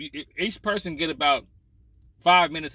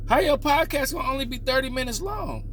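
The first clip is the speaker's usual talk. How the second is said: incredulous; 9 semitones higher than usual. Real, not acted. Incredulous rant at LeBron.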